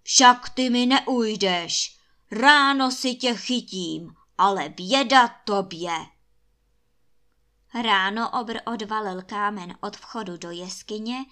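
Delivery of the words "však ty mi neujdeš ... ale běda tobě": loud, furious threat of a giant; enraged giant's roar. A narrator's reading. Giant threatens the escaping prince, enraged roar. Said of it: "až se obr rozzuřil a zařval".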